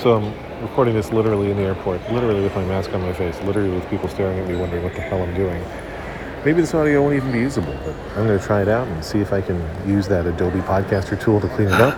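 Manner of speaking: unprocessed noisy phone audio; untreated, roomy, muffled audio; raw airport recording. Shown as a demonstration. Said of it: "hear what it sounds like when, uh, I wasn't running those plugins".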